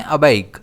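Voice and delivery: अबाइक said clearly as a-BAIK, stress on the B; careful teacher pronunciation; pronunciation demo. Shown as a demonstration. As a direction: model अबाइक slowly for students. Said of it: "इस word को हम pronounce करते हैं".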